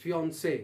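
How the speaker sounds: "fiancé" said as fee-on-say, never as fancy; correct pronunciation. Shown as a demonstration. Teacher corrects the common "fancy" mistake with "fiancé". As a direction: model "fiancé" cleanly. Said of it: "The word is".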